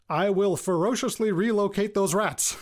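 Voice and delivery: hammed-up battle vow about rats; mock ferocious. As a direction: swear it like a grim warrior, tongue in cheek.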